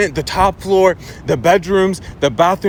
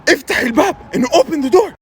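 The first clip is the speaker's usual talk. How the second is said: loud, raised grandpa bellow; stern calling out; 8 semitones higher, 4 dB louder than usual. Retold or imitated. Grandpa at window to toddler, loud stern call. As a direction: call sharply and order the child.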